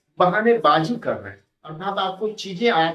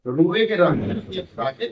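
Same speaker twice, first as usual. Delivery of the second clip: Bhojpuri saying. Shown as a demonstration. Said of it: "ये भोजपुरी में मैंने बताया".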